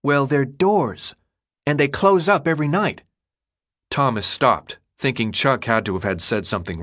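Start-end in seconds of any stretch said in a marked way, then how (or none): 0.0-3.0 put-on matter-of-fact boy. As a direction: spell it out patiently. Chuck explains, matter-of-fact.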